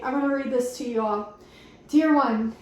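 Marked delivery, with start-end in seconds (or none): 1.9-2.5 mock solemn greeting. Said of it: "I love when they say dear one".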